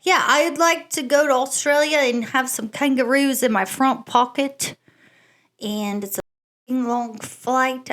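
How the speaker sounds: unsure, badly faked Australian accent; amateur Australian accent, slowing as it falters; Australian accent attempt. Shown as a demonstration. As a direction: have a shaky go at Australian, drifting toward English. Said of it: "answer the question in an Australian accent".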